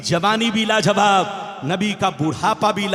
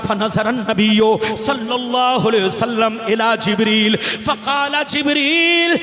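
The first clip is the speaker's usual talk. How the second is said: measured chanted Arabic reading; Arabic hadith recitation. Acted. Preacher reading the hadith to the gathering, in chanted Arabic.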